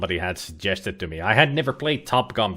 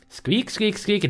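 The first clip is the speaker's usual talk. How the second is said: much higher squeaky critter voice; ferret squeaks; 10 semitones higher, slower than usual. Pretend. Player voicing the ferret answering about Yvette, high squeaks. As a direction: squeak like a pleased little ferret.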